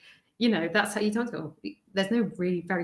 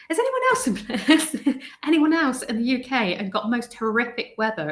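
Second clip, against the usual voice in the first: laughing question; 3 semitones higher, 3 dB louder than usual. Real, not acted. Laughing about the storm.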